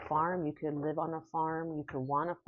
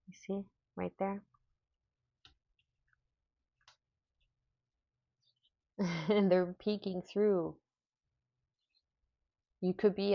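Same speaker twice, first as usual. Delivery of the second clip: delighted fairy spotting; 2 semitones higher than usual. Real, not acted.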